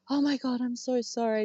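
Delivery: high, gushing mock apology; sweetly apologetic. Housemate imitating partygoers outside the bedroom door, sweetly apologetic. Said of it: "Just, like, really lovely, adorable".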